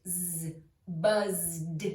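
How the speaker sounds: voiced "z" running into a D in "buzzed"; voiced Z sound. Shown as a demonstration. Teacher showing learners that Z is voiced, voiced demo. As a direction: buzz the "z", then "buzzed" with a D ending. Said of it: "Z is also voiced".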